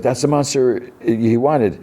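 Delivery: high, drawn-out retold insistence; acted panic. Boy explains monster to companion, high acted distress. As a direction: push the pitch up and stretch it out.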